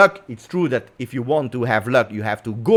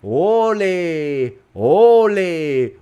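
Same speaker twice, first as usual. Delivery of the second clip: long drawn-out stadium "Ole", higher pitched; imitating yelling supporters; 4 semitones higher, 4 dB louder, much slower than usual. Imitating Lazio supporters at the end of the game, drawn-out yelling chant. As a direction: chant it like a football crowd, stretching the last syllable. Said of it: "supporter of Lazio screaming and yelling".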